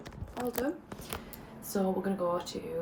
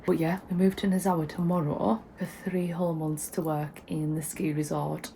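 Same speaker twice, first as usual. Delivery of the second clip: slight lisp from a retainer; talking around a retainer; lispy with retainers. Real, not acted. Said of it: "so if I sound a bit lispy".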